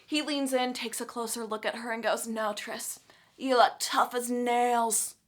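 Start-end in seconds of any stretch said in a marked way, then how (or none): 2.3-5.2 lowered, slow, tender voice, softly teasing; soft gentle reassurance. Retold or imitated. Four comforts tearful Tris: soft, slow reassurance. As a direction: hush it like comforting someone who's been crying.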